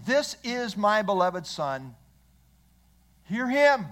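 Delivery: lightly voiced God the Father, speaking with authority. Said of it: "This is the voice of authority".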